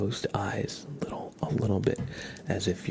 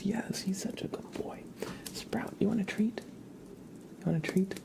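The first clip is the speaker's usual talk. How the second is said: high, sing-song whisper to a pet; 12 semitones higher, 3 dB quieter than usual. Real, not acted. Streamer coaxing her dog Sprout with high cooing baby talk.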